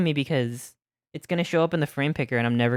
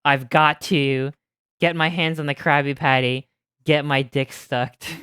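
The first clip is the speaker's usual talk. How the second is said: loud determined quote; 6 dB louder than usual. Retold or imitated. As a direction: declare it with mock gravity. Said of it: "it was like".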